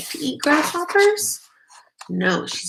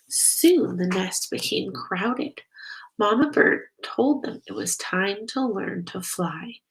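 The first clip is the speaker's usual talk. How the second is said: gentle read-aloud storytelling voice; story narration. Acted. Narrator reading a bat story to children, gently. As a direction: read it like a bedtime picture book. Reads picture book aloud.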